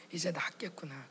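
soft whisper, 이제 stressed, falling end; whispered relief. Retold or imitated. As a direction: breathe it out in quiet relief. Inner relief thought repeated. (조용히 안도하며 속삭임)

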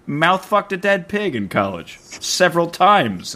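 high, indignant, incredulous; shrill gossip reveal; high mock outrage.

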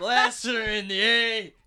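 laughing, slow and amused. Real, not acted. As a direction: laugh through the words. Joking, laughing.

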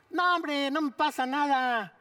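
a touch of mocking bravado; dismissive youngster. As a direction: lightly imitate a kid shrugging off danger. Voices careless youth refusing masks.

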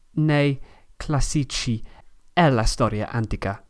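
Italian with an English accent; English learner's accent in Italian. Real, not acted. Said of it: "o mia pronuncia è mala".

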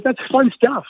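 high-pitched, cheery imitation; Ray Ratto. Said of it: "this is typical Ray Ratto".

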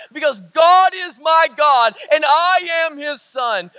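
slow, loud proclamation; booming slow creed; shouted declaration. Real, not acted. Repeated refrain in sermon.

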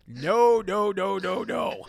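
emphatic refusal. Retold or imitated. Mock-emphatic answer to daughter's question.

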